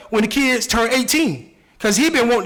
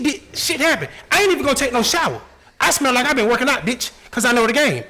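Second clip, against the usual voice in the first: raised, heated inner rant; a savage's inner rant, pitched up; thinking angrily; 3 semitones higher than usual. Retold or imitated. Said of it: "but he be thinking".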